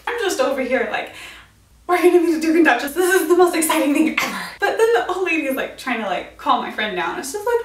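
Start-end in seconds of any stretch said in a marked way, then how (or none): 1.9-4.4 fast, louder gushing excitement; giddy fan rushing her words about the Duke and Duchess; excited. Retold or imitated. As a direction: rush it out, thrilled to meet royalty. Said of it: "super excited".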